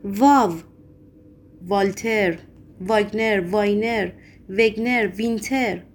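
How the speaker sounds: trying names one at a time; separate, questioning guesses, thinking aloud; asking himself aloud. A narrator's reading. Poet racking his brain for a surname, aloud.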